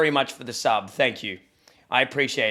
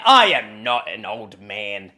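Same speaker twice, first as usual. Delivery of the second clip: mock old man; 8 semitones lower, 5 dB louder, slower than usual. Denies being an old man.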